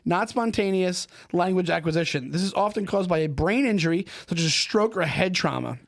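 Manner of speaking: steady, even article read; reading aloud. Acted. Host reading background info aloud, steady. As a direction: read the text out for the guests.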